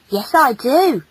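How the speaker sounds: lightly voiced sincere boy; earnest boy. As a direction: confirm it earnestly as a young boy. Boy earnestly confirms compliment.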